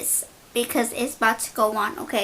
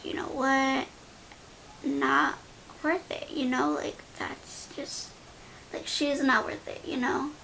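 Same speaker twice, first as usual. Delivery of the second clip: retold backing down, a bit softer; voice getting lower; 6 dB quieter than usual. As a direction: let the fight drain out, slightly hushed. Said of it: "my voice began to just, you know, just kinda get lower".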